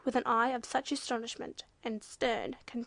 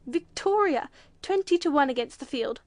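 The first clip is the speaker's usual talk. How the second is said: shouted; 3 semitones higher, 8 dB louder than usual. A narrator's reading. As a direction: shout it out like calling the odds. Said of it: "shouted the judge".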